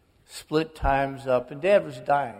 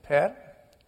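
father's phone voice. Retold or imitated. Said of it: "And I said, ... And it's Dad".

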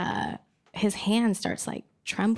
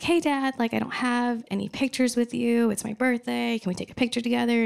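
imitated younger sister; 3 semitones higher than usual. Younger sister asks dad for photo.

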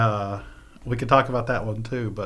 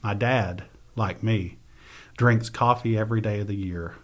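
measured, unhurried reading of her own prose; reading aloud. Acted. Author reading her memoir passage to the host, measured reading voice. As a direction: read the passage like a memoir excerpt.

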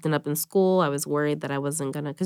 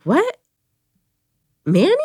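high, louder cry of disbelief; the truth landing all at once; shocked; 9 semitones higher, 6 dB louder than usual. Retold or imitated. Sister realizing her brother Manny is dead, shocked cry. Hearing brother's death retold.

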